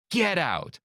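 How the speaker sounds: high-pitched sitcom disbelief; Elaine from Seinfeld. Acted. Woman on plane reacting to a magician, imitated sitcom disbelief. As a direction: imitate a sitcom character's astonished outburst. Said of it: "Like Elaine from Seinfeld".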